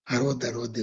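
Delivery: low, hushed, secretive; retold under-the-breath warning; softly spoken warning. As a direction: imitate quietly shushing someone close by. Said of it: "నెమ్మదిగా చెప్తున్నాడు".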